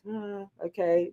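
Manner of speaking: gormless. Retold or imitated.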